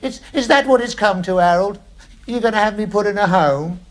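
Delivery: high, hurt and pleading; guilt-trip your son; wounded old father. Acted.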